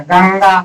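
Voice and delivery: गंगा with a light nasal ङ hum in the middle; nasal demo. Shown as a demonstration. Teacher shows students the nasal sound in गंगा, gently nasal. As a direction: let the middle of गंगा hum through the nose. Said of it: "बीच में हल्का सा आपको महसूस होता होगा ना".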